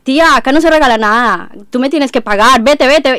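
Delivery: put-on loud, high Spanish shopkeeper accent, shooing her off; imitating a Spanish baker in a Spain accent. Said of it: "Qué bien te sale el acento español".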